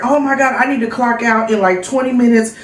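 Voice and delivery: telling coworkers her dad will call, excited; excited retelling. Retold or imitated. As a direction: relive the thrill of telling coworkers.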